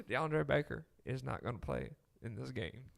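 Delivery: put-on a mild Bainbridge, Georgia coach accent; Kirby Smart Southern accent. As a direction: give it a hint of a Southern head coach. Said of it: "I'll get you a Kirby eventually".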